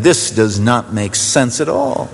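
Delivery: high, insistent sceptical protest; incredulous objector. Acted. Doubter at the serpent on the pole, incredulous. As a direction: raise the pitch in mock disbelief, stretching the words. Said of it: "some Jew who was there saying".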